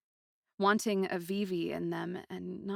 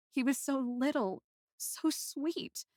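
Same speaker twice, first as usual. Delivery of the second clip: tearful; 7 semitones higher, slower than usual. Acted. Grieving the mage.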